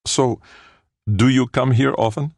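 high, playful pickup line with a grin; grinning flirtation. A narrator's reading. Man jokingly chatting up Felicia, grinning and playful. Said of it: "With a wide grin, he asked".

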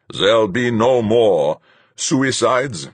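commanding captain, cold; stern captain. A narrator's reading. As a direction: lay it out like a hard captain. Captain Fuchs' voice.

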